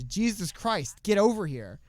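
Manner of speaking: mock yell. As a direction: call the cameraman over in a hammed-up half shout. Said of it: "Courtney Cox is yelling at her cameraman".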